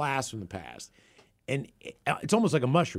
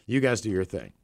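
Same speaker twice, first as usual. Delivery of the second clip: fed-up friend; 5 semitones lower, 3 dB quieter than usual. Retold or imitated. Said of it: "Sauce Man's had enough of our crap".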